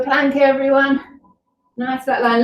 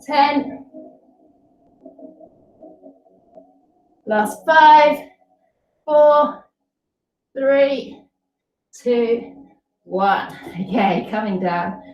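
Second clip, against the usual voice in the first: counting while holding a plank; straining through a plank hold; 3 semitones higher, much slower than usual. Real, not acted. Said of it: "hold it here. Just a normal plank".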